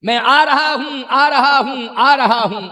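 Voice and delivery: loud, insistent repeated call; acted calling out. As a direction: call out as if rushing to the rescue. Acts the vulture calling out to Sita.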